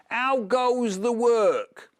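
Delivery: high, slow, loud bossy call; farmer calling. Acted. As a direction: bellow it down like a lazy farmer. Farmer calls again.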